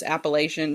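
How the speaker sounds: "Appalachian" said app-uh-LAY-shun, long A, SH. Shown as a demonstration. Host shows the alternative, "Appalachian" as app-uh-LAY-shun. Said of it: "You can say both".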